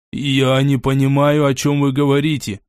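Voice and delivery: smiling. Acted. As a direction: say it with a silly smile. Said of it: "улыбнулся язык".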